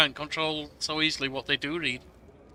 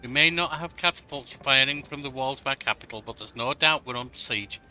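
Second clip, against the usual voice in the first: put-on urgent young advisor; 3 dB louder than usual. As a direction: read it as a worried young advisor bringing bad news. Reads advisor Lindsay's dialogue aloud.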